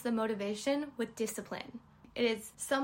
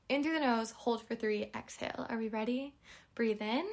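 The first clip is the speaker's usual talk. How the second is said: guided breathing. Shown as a demonstration. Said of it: "Let's all take a breath".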